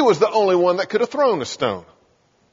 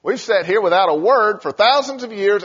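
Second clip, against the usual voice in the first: eager talking stones; 6 semitones higher than usual. Pretend. Preacher voicing stones that finally get to speak, giddy and much higher. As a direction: squeal like a rock finally allowed to speak. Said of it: "they would say".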